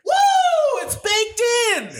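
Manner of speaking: piercing whoop into a goofy yell; mock hype shout. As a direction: whoop and holler the gag sky-high. Yelled running gag.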